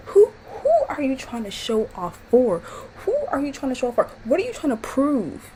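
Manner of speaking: high, pleading why; exasperated questioning. Real, not acted. Scolding Chardonnay on screen, high exasperated questions. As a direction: beg her to explain herself.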